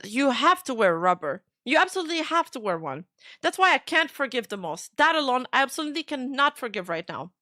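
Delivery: reading out an upset rebuke, lightly acted; firm, insistent retold reproach with a touch of emotion; mildly emotional. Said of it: "I got a little emotional".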